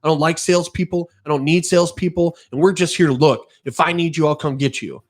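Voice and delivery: imitating a rude man jabbing a finger; rude customer. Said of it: "and he goes".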